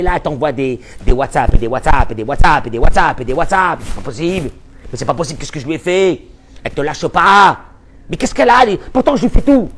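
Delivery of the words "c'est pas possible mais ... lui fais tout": high, loud mock protest; hammed-up outraged husband; indignant husband. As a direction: plead your innocence, exasperated. Husband protesting he does everything.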